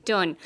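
done said as dun, with the U vowel. Shown as a demonstration. Teacher showing done pronounced dun. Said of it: "we pronounce that with the U".

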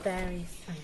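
talking with the nose held shut; pinching nose. Real, not acted. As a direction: say it while holding the nose closed. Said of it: "altered her voice".

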